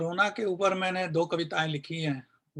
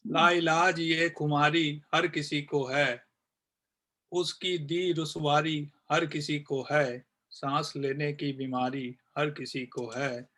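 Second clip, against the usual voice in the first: poem recitation. Acted. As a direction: recite each line evenly, then let the final repeats die away. Recites second poem, repeated refrain. (कविता पाठ, अंत में मंद होती आवाज़)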